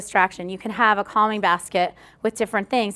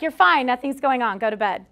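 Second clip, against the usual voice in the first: dismissive brush-off. Shown as a demonstration. Parent waving off a child's fear, curtly dismissive. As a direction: brush the scared kid off fast. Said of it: "Don't be dismissive".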